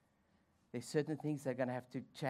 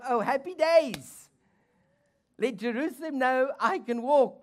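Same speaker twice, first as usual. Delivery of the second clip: mock joy; 11 semitones higher, 12 dB louder than usual. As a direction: crow it happily to the city. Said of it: "It's like".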